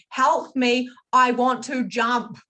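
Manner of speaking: a touch of remembered despair, not full force; desperate plea. Retold or imitated. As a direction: slowly act out the old cry for help. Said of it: "And I'm saying".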